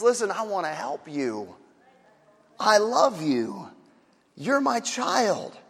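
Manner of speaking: put-on a father reassuring his child, gently and slowly; tender father. God as a father speaking to his child, tenderly and slowly. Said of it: "a father to a child and says".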